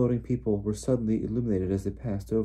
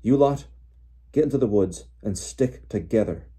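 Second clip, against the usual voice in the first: shouted orders; 2 semitones higher, 5 dB louder than usual. A narrator's reading. Father sending the children to the woods, shouting. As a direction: order the youngsters away over the din. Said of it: "Mister Weasley shouted over all the noise".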